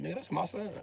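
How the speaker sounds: retold quiet disbelief. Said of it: "I said".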